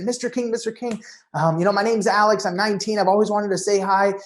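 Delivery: eager fan meeting his idol; nervous eager fan. Retold or imitated. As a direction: gush like a starstruck teenager. Nervous fan greeting celebrity.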